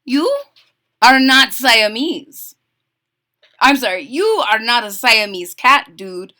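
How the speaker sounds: lightly put-on Spanish accent, emphatic. A narrator's reading. Skippy addresses the dog in the mirror, Spanish accent. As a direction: declare it slowly with a playful Spanish accent. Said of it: "very best Spanish accent".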